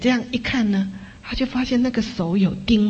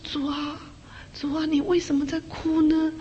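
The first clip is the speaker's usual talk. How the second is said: soft, much quieter, asking gently; hushed, tender plea; hushed tender question; 7 semitones higher, 6 dB quieter than usual. Retold or imitated. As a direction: speak softly to a weeping friend. Asking weeping Jesus, tender.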